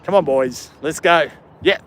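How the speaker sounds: hammed-up Aussie mateship, lightly done; rally the boys in broad Australian; full-on Australian accent. Shown as a demonstration. Streamer attempting Aussie phrases for chat, a mild put-on Australian accent. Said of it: "Australian accent. Probably not the greatest at it".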